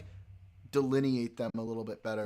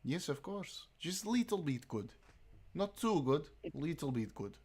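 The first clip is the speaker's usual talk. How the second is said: put-on Russian accent; 2 semitones higher, 5 dB quieter than usual. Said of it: "That's pretty good".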